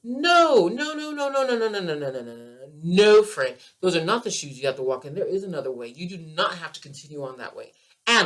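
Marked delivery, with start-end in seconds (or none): 0.0-3.2 higher, louder string of no's; real passion breaking through in a run of no; passionate no. Real, not acted. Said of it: "I get so passionate about this".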